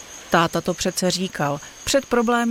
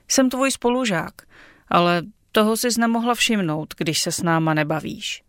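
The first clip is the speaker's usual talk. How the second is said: a bit offended. Acted. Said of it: "zaznělo trochu uraženě".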